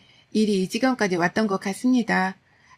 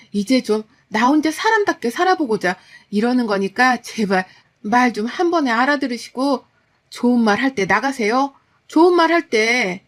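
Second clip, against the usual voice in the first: thunderous scolding; 3 dB louder than usual. Retold or imitated. Daughter-in-law ordering her mother-in-law out, building scold. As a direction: lay down the law, louder at the end. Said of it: "라며 호통을 치니".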